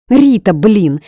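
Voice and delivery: high, loud exasperated wail; wailing cry. A narrator's reading. Heroine wails at her friend for betraying her. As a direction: howl the friend's name in dismay. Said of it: "взвыла я".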